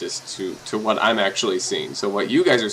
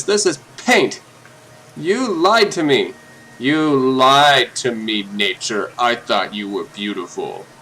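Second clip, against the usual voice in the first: mock heartbroken; 2 semitones higher, 4 dB louder, slower than usual. Mock betrayal speech to nature.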